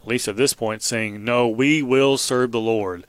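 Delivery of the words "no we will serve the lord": slow, firm promise; a congregation's steady vow; determined. Retold or imitated. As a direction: say it with resolve, taking your time. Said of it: "they reply with determination".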